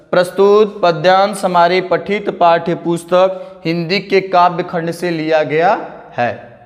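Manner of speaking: slow, measured model-answer dictation; spaced-out, deliberate reading of an exam answer. Shown as a demonstration. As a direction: dictate it phrase by phrase for students to write.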